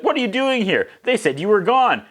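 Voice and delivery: put-on high, startled girlish squeak; mock-shocked high voice; squeaky girl voice. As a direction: play her as a surprised young girl. Nikki voiced in a retold scene.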